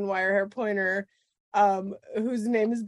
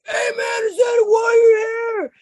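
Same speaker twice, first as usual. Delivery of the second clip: retold shout; 13 semitones higher, 7 dB louder than usual. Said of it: "and he's like".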